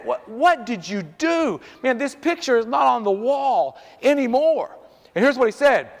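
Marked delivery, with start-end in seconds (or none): 0.0-4.8 stretched-out, incredulous dad question; drawn-out mock reprimand to a child; retold dad's scolding. Dad questions his boy about the fallen picture, retold scolding.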